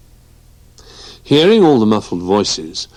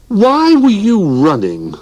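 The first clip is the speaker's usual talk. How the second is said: curious dog voice; 13 semitones higher, 6 dB louder, slower than usual. Acted. Dog asks Barnaby.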